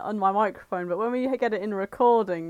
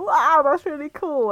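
with undertone; 5 semitones higher, 4 dB louder than usual. Shown as a demonstration. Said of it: "and I go".

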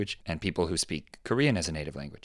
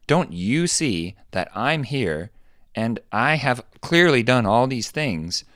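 imitated insistence; 4 semitones higher than usual. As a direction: plead your case, leaning hard on words. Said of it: "So your mind went to what you just said".

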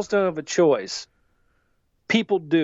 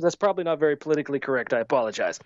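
mock formal apology; 4 semitones lower, much faster than usual. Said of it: "I said".

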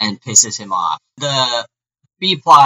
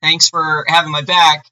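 casual upbeat; 4 semitones higher, 4 dB louder than usual. Retold or imitated. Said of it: "Green Fury's like".

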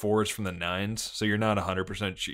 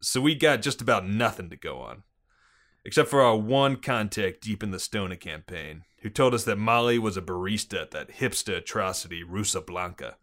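put-on police chief briefing in a Boston accent; gruff-cop Bostonian, dropped R's. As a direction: lay out the case in Boston cop talk. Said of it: "Excellent Bostonian accent".

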